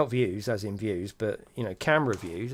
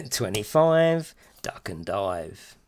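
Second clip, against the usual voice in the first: slow drawn-out rhyme call; bingo caller; 2 semitones lower, 6 dB louder, much slower than usual. Acted. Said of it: "meant to be a bingo call".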